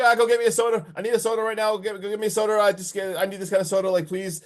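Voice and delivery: mock desperate demand, words tumbling over each other; retold frantic plea. Retelling Sky begging for a soda at the door, mock frantic.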